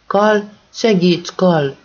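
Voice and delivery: high, slow, frightened cry for help; terrified plea. Acted. Nésa calling Kal for help, frightened. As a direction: beg for help in panic. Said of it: "rémült".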